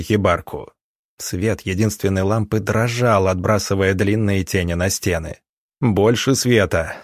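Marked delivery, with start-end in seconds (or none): 5.8-7.0 stern. Acted. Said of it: "строго сказал доктор".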